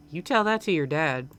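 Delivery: lightly Southern mother; slightly southern accent. Acted. Mom answering her son's promise, slightly southern accent. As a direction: put him off with a hint of Southern. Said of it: "like, a slightly southern accent".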